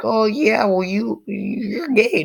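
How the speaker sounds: high, whiny mock retort; mock defensive comeback. Telling viewers how not to answer back, mock defensive. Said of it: "I don't mean, like, be like".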